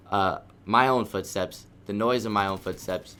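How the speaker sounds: slight lisp on s sounds; talking with aligners in. Real, not acted. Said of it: "excuse my lisp".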